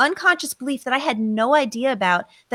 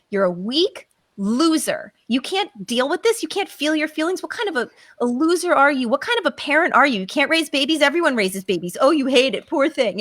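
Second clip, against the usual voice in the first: sneering self-mockery, a touch quicker; mocking inner critic; 2 semitones higher than usual. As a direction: lightly voice a cruel inner critic. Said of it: "I'm making fun of myself".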